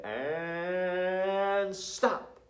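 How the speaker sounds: high, loud command to stop; sharp high stop call to the class. Shown as a demonstration. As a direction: call it out so the whole class freezes. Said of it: "And then I'm gonna say".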